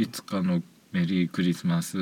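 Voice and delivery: その曲名を抑揚なく平坦に、少し低めに; その曲名を歌わずにわざと棒読みする; 棒読み. Shown as a demonstration. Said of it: "棒読みで". (その曲名を節をつけずに淡々と読む)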